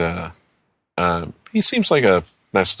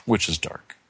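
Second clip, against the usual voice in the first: hushed spooky whisper; 3 semitones lower, 7 dB quieter than usual. Acted. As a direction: breathe it out, spooky. GM whispers the line back.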